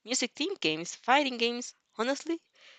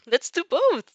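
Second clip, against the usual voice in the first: higher, louder eager reply; enthused; 9 semitones higher, 7 dB louder, slower than usual. Acted. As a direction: jump at both ideas. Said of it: "you enthused".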